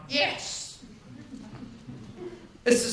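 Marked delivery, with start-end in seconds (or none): 0.1-0.8 breathy whispered "Yes"; a soft awed whisper; hushed eager yes. Retold or imitated. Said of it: "And I'm like".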